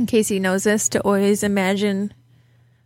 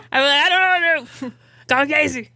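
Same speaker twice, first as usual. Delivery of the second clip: high slow mock helpless; 7 semitones higher, slower than usual. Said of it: "I'm like".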